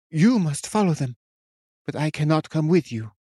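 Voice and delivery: a hint of a lofty witch; witch, pleading. A narrator's reading.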